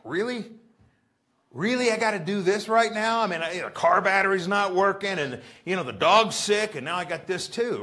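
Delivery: high, loud incredulous complaint; exasperated disbelief. Retold or imitated. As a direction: act baffled that it's all happening at once. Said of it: "with bewilderment".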